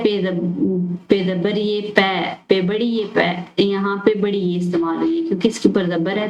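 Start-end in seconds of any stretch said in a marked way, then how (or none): 0.0-3.4 slow spelling out. Shown as a demonstration. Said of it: "next है".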